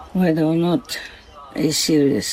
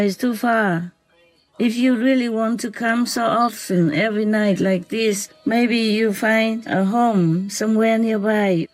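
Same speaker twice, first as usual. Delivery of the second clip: tender talk to fox; 5 semitones higher than usual. Real, not acted. Woman talking lovingly to the fox that visits nightly, tender. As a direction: gently reassure a small animal you love.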